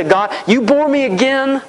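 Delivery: smug, self-satisfied prayer, not overdone; mock boastful prayer. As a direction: play the bragger puffed up with himself, a touch mocking. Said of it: "Do we use this to brag and say".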